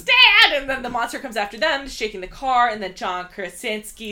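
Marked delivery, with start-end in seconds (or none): 0.0-0.5 high, loud mock scream of Dad; imitating a scream. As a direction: shout Dad like the terrified kid. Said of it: "the kid screams".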